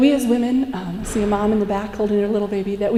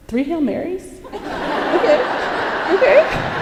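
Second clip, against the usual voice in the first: much higher, laughing okay okay; mock relieved okay; 8 semitones higher, slower than usual. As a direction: laugh it off, delighted it's so easy. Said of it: "We're like".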